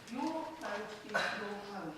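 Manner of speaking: slow, deliberate, every word weighed; spelled out very clearly. Real, not acted. Councillor assuring the boater, slow and emphatic. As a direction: make each word land, slowly and firmly. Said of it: "very clearly".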